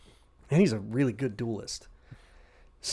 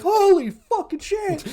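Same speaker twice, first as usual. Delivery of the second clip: much higher, slow, louder panicked cry; terrified clones; 7 dB louder, slower than usual. Retold or imitated. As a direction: gasp it out in horror. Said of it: "They're like".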